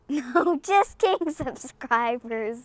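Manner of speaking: giggly just-kidding take-back; laughing. Real, not acted. Vlogger tells subscribers they were just kidding, laughing. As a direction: say it through a little laugh. Joking after pretending to sign off.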